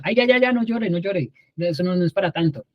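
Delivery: imitando un ay ya ya agudo y condescendiente; consuelo despectivo. Retold or imitated. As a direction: quitarle importancia al llanto, en tono de burla leve. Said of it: "primero que normalmente decimos cuando alguien está llorando". (consuelo apurado e impaciente, agudo al principio)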